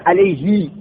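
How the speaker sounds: علیهی ending in a long ee, 'alayhī'; Arabic pronoun form 'alayhī' with long i; lengthened kasra ending. Shown as a demonstration. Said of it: "با اشباع استعمال داره".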